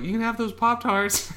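high, loud, drawn-out offer; hammed-up high voice offering a treat; imitated hoarder host. Voicing hoarders offering broken food.

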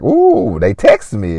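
a very high, thrilled ooh; a high, giddy coo at the phone; delighted ooh. Retold or imitated. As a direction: squeal at the new message. A text pops up on screen.

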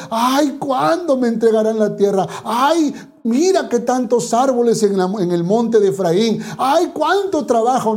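lightly whiny sigh of a lazy worker; a hint of self-pitying groans, ay after ay; mock whining complaint. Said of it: "no estaba llorando, sufriendo". (queja burlona y quejumbrosa, con suspiros de ay)

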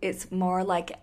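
attempted West Coast American accent; badly done American accent, trying for West Coast; put-on American accent. Podcast host replying to Wendy's voicemail, in a shaky imitation American accent. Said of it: "American accent I've ever done".

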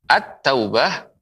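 "At-taubah" with the l silent and t doubled; merged article. Shown as a demonstration. Quran teacher shows a syamsiyah letter, merged article. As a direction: say "At-taubah" with a held t. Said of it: "ini namanya huruf syamsiyah".

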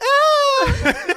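high, loud cartoon "Ah!" yell; mock scream. Friend mocking his mate's panic with a shriek. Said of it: "you're like".

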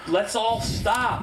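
slow, drawn-out suggestion; slow mock plea; mock reasonable crowd. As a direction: act out a calm crowd member. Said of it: "not be like".

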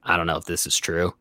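quietly questioning if it's true; murmured disbelief to a coworker; hushed doubt. Retold or imitated.

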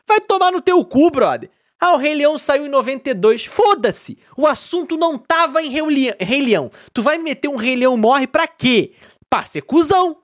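high, loud indignant rant; mock outrage. Ranting at a friend who spoils Lion King, indignant and loud. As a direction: tell off the guy who spoiled it.

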